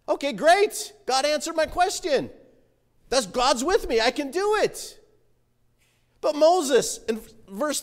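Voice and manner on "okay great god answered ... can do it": higher, acted relief and eagerness; upbeat confidence. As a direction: sound happily convinced, ready to go. Imagined relieved, confident Moses reply.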